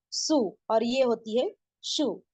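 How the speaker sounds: सु plain s, शू whistling sh; contrast su and shu. Shown as a demonstration. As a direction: set सु against शू slowly. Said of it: "इस शीन की आवाज क्या होती है". (सु और शू का फर्क)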